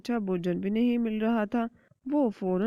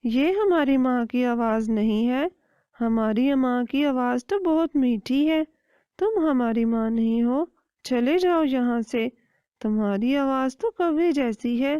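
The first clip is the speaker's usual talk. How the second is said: louder, raised chick scolding; children telling off an impostor; indignant chicks; 4 semitones higher, 6 dB louder than usual. Acted. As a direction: send the stranger away firmly. Chicks reject the voice.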